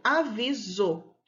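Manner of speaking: "avisou" stretched slowly, syllables apart. Shown as a demonstration. Teacher showing pupils the final syllable, slow and measured.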